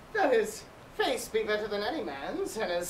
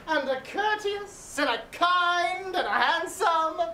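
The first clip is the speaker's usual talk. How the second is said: teasing delay; 3 semitones higher than usual. Acted. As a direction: stretch each compliment to keep them waiting. Nurse teasingly delays the news.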